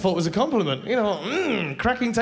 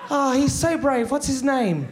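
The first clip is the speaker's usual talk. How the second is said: cooing stranger; 4 semitones higher, slower than usual. Retold or imitated. Mimics stranger cooing over child.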